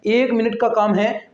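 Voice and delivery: slow reassuring repeat. Shown as a demonstration. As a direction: repeat it slowly so students relax. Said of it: "बस एक minute का काम है". (धीरे-धीरे, तसल्ली देते हुए दोहराना)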